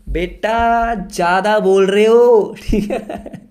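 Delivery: very slow, drawn-out teasing reproach; mock scolding. Teacher to a student who talks too much, mock scolding. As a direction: stretch it into a playful warning.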